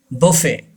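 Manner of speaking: "buffet" said as bo-fay; silent T. Shown as a demonstration. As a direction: end "buffet" on the vowel, no T. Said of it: "टी is silent". ("buffet" में टी silent, "बोफ़े")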